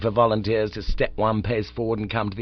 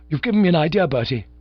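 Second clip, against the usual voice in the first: excited; 7 semitones higher, 6 dB louder, faster than usual. A narrator's reading. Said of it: "said Bingo, excited, carried away".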